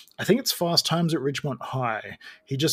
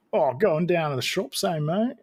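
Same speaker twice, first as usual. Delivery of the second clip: higher-pitched broad Aussie line; slipped Australian accent; 4 semitones higher than usual. Acted. Actor's accent slipping on one sentence, Australian accent. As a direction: let an Australian accent slip out. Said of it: "one sentence where it's like".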